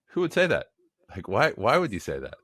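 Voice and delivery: can't believe he just said that; incredulous. Retold or imitated. Speaker retelling his reaction to a client's remark, incredulous.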